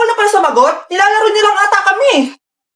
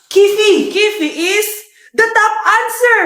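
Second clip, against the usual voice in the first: game show host; 3 semitones higher than usual. Acted. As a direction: announce it like a quiz host.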